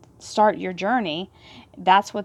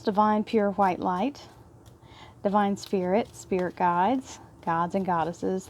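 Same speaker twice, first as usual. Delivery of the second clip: soft, hushed prayer voice fading quieter; reverent prayer; 3 dB quieter than usual. Acted. Second prayer to the angels.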